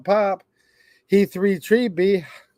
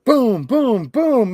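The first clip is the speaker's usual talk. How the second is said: much higher, louder booming; thunder booms; 7 semitones higher, 4 dB louder, slower than usual. Acted. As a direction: boom out like thunder. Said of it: "Mister Brown makes thunder".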